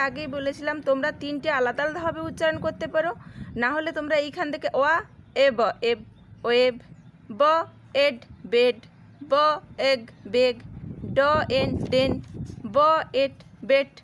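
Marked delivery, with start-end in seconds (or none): 5.5-13.9 ব then এড, then blended into বেড; onset and rime blending. Shown as a demonstration. Teacher to pupils, blending the E family words. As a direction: pause between the first consonant and the rest, then the whole word. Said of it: "এইরকমভাবেও পড়তে পারো তোমরা".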